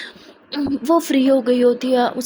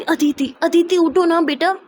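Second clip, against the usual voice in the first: mother calling; 6 semitones higher, slower than usual. Acted. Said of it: "Aditi की mom बहुत चिल्ला रही थी".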